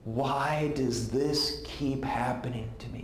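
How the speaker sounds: very slow, tearful repeated plea; mild imitated sob, drawn out; sobbing. Friend crying to Ted on the phone, slow tearful. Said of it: "she's just sobbing".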